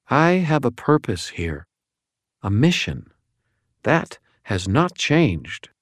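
high, cool fallen angel voice; an otherworldly angel, detached and probing; Lashiel's voice. A narrator's reading.

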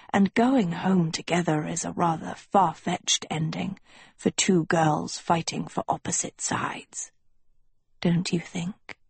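hushed, measured schoolmaster; understated, whispery authority. Acted. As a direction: explain it quietly, with deliberate pauses.

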